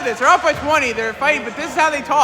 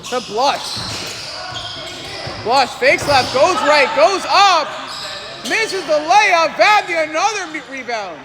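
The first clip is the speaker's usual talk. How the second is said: quick, lively sports commentary calling each play. Acted. Commentator calling the game for viewers, live play-by-play. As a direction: call the game like a courtside announcer.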